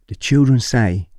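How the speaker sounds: put-on deliberate Hong Kong-accented delivery; Miss Lynn. Head of English telling teacher of children's praise, Hong Kong accent. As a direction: imitate a Hong Kong woman passing on praise. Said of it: "If I do the accent".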